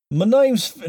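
a botched try at a Southern voice, cut off; failed Southern accent. Shown as a demonstration. Host starts a Southern demo for Fish, then drops it. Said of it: "no, that's not Southern".

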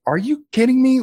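high, loud disbelieving cry; can't believe they parked there; exasperated disbelief. Retold or imitated. Filmmaker reacting to tourists parked on set, high exasperated disbelief. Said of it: "And I'm just like".

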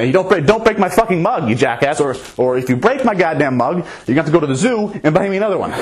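mock yell. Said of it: "so she yells at me".

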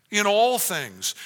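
preacher stresses the scope of Paul's command, emphatic; stress on all. Shown as a demonstration. Draw out "all" in "in all things". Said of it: "it's very emphatic".

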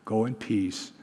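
soft, low, understated reassurance; gentle blessing. Retold or imitated. Jesus to the healed woman, gentle reassurance. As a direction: send them off kindly and quietly. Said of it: "he says".

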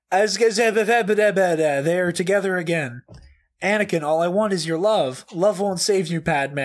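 yelled fan reactions. Acted. Reading a friend's movie reactions aloud, mock yelling. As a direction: read it out like an overexcited fan venting. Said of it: "she yells in a lot of these".

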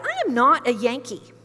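mock-indignant, firmly denying the label; indignant retort. Teacher objecting to students calling him Yankee, mildly indignant. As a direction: protest with a touch of comic outrage.

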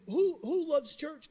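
slow, high, laughing rally call; laughing through a slow loud call; translator calling out. Retold or imitated. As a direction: draw it out to the kids. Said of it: "And he said".

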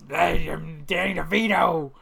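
slow gruff Danny DeVito impression; lightly done gravel-voiced New Yorker. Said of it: "when he's like a".

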